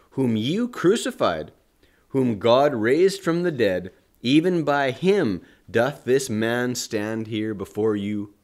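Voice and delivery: loud, declaiming Bible reading; scripture reading. Acted. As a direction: proclaim the text like a preacher. Reads Acts aloud.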